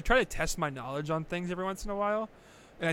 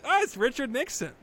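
higher, loud insistence; insistent kid; 9 semitones higher, 5 dB louder than usual. Retold or imitated. Retelling his younger self insisting, raised and high. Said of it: "I was like".

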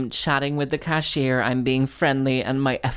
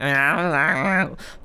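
garbled mock blather; a run of meaningless noise; imitated wordless babble. Comic shows how they answered the flirting, garbled babble. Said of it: "So I just sort of went".

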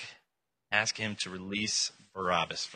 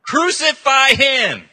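high, slow, full-force yell; very loud, stretched-out crowd cry; even fiercer mob shout; 14 dB louder, much slower than usual. Acted. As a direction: roar it out as a mob. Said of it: "They shouted all the more".

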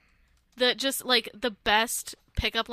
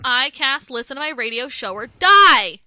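loud, slow mock incantation; mock spell-casting; 9 dB louder than usual. Playful threat to listeners, loud mock spell-casting. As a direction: cast it like a spell, booming on the last word.

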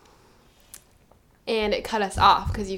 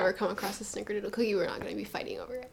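whisper; 5 dB quieter, faster than usual. Real, not acted. Whispered asides about cookies.

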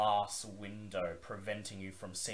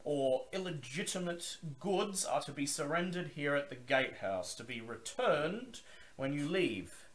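higher, louder gruff gatekeeper; gruff male voice; 6 semitones higher, 3 dB louder than usual. Acted. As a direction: bark it like a gruff guard. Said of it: "He says".

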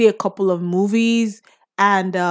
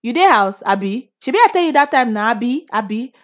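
pidgin speaker's nagging question; 3 semitones higher, 4 dB louder than usual. Retold or imitated. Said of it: "You say".

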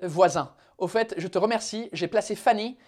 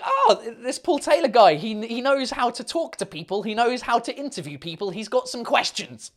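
higher-pitched voice of admiring viewers; imagine viewers talking him up, pitched higher; impressed onlookers; 5 semitones higher than usual. Acted. Imagined viewers praising his interviewing, impressed. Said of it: "other people will be like".

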